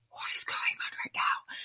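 hushed, acted whisper; stunned whisper. Woman retelling lying there mortified and crying, stunned whisper. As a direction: whisper it to yourself in disbelief.

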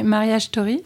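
Marriage Story in a light English accent. Real, not acted. Host hears her say the film title with an English accent. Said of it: "avec mon accent anglais".

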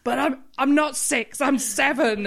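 put-on high, slow childish protest; whiny child voice. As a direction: mimic a kid insisting on his age.

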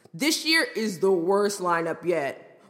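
slow lightly voiced frat bro. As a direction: drag it out like a smug dude-bro. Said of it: "Him, in a frat bro voice".

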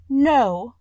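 a touch of tearful protest, high and loud; weeping. A narrator's reading. Beauty refuses to let Beast die, mildly tearful. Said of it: "said Beauty, weeping".

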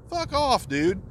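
sudden high fuck off; incredulous dismissal; exasperated. Real, not acted. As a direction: brush him off, fed up. Angry rant at league whiner.

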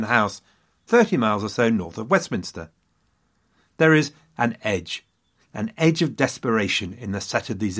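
measured storytelling with weighty pauses; dramatic history narration. A narrator's reading. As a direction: set the scene like a historical drama. Dramatised scene-setting narration.

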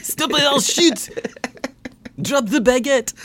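high, loud mock shouting cop; mock French cop. Host plays a French cop yelling at a suspect, high and loud. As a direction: yell like a cartoon French policeman.

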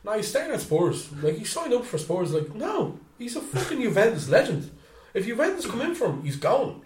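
high-pitched mock protest; high, insistent imitation of supporters; indignant football fans. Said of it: "the Spurs fans going".

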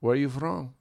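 lightly voiced Mexican-accented cabbie. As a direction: imitate a driver with a Mexican accent. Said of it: "the quintessential Mexican accent".

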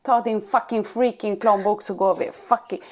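slow, drawn-out mock kid swearing; lightly voiced cocky boy; a hint of a cool kid, slowed down; imitating son swearing. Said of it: "säger han också".

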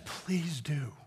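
breathy whisper, barely there; whispered reply. Retold or imitated. Weeping young man answering wife, whispered. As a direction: whisper it, worn out from crying.

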